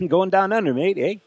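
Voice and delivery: a deliberately terrible Australian "mate"; bad Australian accent. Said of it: "That's a terrible Australian accent".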